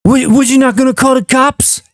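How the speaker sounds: high mock kid voice; a hint of a dumb kid; young Frank Dukes. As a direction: ask it like a dim kid. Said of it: "do the Young Frank Dukes voice".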